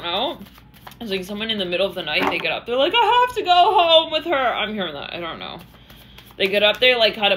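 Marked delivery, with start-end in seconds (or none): 3.0-4.3 urgent. Acted. Urgent getting up at night.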